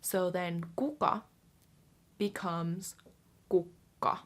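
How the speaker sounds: kukka with the K held; kukka, held double K. Shown as a demonstration. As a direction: say kukka with a pause on the K. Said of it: "the tavu for this would be K U K space K A".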